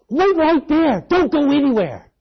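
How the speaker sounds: put-on high, loud excited kid voice; a boy of eight calling out to a stranger; eager little boy. Little boy urging the preacher to wait, high and loud. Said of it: "and he goes".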